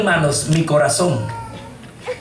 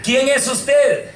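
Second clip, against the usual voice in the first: a hint of tearful pleading, slow and high; retelling how he begged through tears; crying while asking; 6 semitones higher, much slower than usual. Man in a vision asks the voice while crying, mildly tearful.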